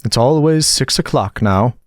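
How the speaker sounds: slow, high and mournful; the Hatter lamenting his broken watch. A narrator's reading. Hatter to Alice, mournfully complaining about time. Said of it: "in a mournful tone".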